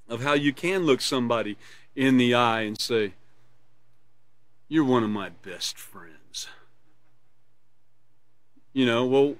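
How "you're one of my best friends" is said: low, soft, slow and unconvincing; insincere tone. Shown as a demonstration. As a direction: say it so they doubt you mean it. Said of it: "if I said it to you like that".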